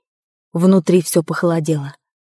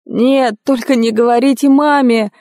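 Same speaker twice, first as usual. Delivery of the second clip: pleading groan; 5 semitones higher than usual. A narrator's reading. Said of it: "простонал Терренс".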